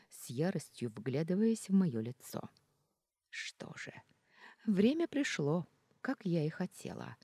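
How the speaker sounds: usual speaking voice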